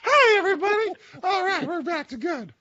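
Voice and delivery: badly done smooth crooner voice; a soul singer's voice. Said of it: "Orm just channeling a soul singer tonight".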